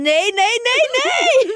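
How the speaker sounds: acted very high, piercing, loud, shrill shriek. Retelling a waitress who ran in through the doors, imitating her screaming. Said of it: "skriker såhär".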